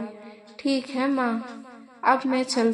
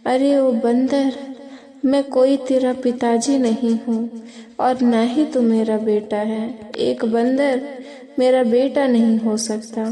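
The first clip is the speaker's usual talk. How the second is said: angry father. Acted. Father scolds the monkey son.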